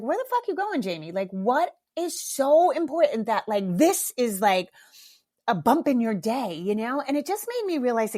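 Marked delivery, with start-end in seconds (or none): 0.0-6.5 laughing at herself. Retold or imitated. To herself at the jug, amused mock scolding. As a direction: tease yourself for rushing, amused. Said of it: "I literally had a laughing moment".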